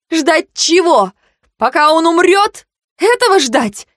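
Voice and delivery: put-on a girl screaming at her mentor over her brother; furious shout. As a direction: scream the question back at him.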